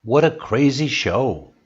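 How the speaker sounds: mild demonstrated surprise; surprised exclamation. Shown as a demonstration. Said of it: "show surprise, your voice goes up".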